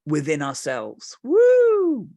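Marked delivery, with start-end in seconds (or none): 1.2-2.1 high joyful woo shout; a sudden high cry of delight; excited whoop. Real, not acted. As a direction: let out a loud happy whoop. Excited whoop after a point.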